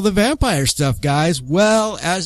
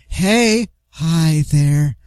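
breathy seductive vampire greeting; sexy vampire; much slower than usual. Retold or imitated. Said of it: "When they sound like".

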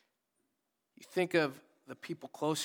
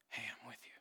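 soft voiced whisper, much softer; still small whisper; 3 semitones lower, 14 dB quieter, faster than usual. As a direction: breathe it like God's comforting whisper. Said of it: "you hear a still small whisper".

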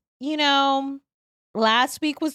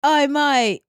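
bad Scottish accent; 5 semitones higher, 5 dB louder than usual. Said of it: "that was supposed to be a Scottish accent".

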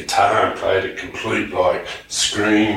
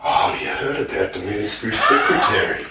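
loud gossip. Retold or imitated. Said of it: "it had worked its way up there for the gossip".

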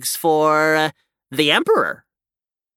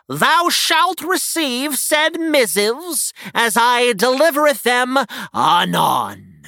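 lightly voiced olde-English herald; town crier; 4 semitones higher than usual. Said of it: "Uh, translation".

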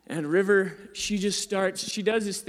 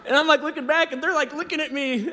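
much higher and louder, laughing while talking; laughing through it; 9 semitones higher, 4 dB louder than usual. Real, not acted. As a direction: giggle through the words.

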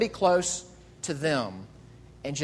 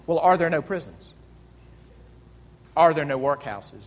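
Scrooge, dismissive. Retold or imitated. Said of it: "And he asked them".

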